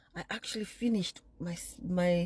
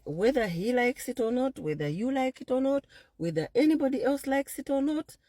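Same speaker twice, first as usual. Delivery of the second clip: defiant vow; 6 semitones higher than usual. Real, not acted. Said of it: "I'm gonna keep my baby".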